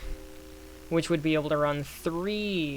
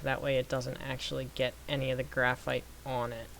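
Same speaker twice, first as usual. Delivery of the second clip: normal talking voice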